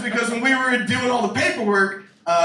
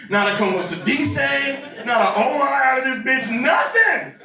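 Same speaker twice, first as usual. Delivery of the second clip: building rant; 4 semitones higher than usual. Real, not acted. Building rant, shout heard.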